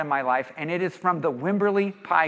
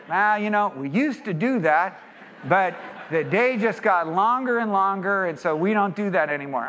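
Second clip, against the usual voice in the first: lightly imitated Texas drawl; Texan shopkeeper politely declining; a hint of Texas twang; 3 semitones higher than usual. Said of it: "in their beautiful Texas drawl".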